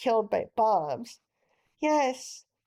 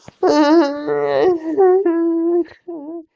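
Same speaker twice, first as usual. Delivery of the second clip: put-on a child's loud wailing sob; loud crying; 5 semitones higher, 9 dB louder than usual. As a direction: bawl at full volume. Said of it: "stop crying".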